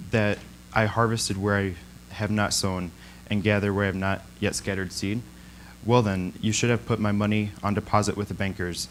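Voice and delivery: measured, solemn reading of the parable; scripture reading. Acted. Speaker reads the parable to the congregation, solemn scripture reading. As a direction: read it out to the congregation, deliberately.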